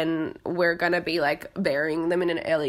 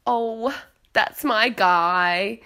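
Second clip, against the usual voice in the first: gentle fond; much slower than usual. Retold or imitated. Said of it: "Ariana is just gently like".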